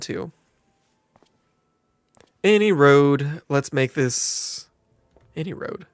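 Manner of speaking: lightly drawled southern landlady; a hint of a folksy southern innkeeper welcoming a newcomer; friendly southern twang, lightly done; southern accent. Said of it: "she went southern".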